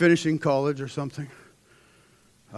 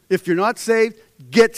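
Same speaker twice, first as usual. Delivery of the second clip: louder, higher, pointed; emphatic preaching; 6 semitones higher, 8 dB louder than usual. Acted. Preacher pressing the unsaved to come forward, loudly. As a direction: call them out firmly.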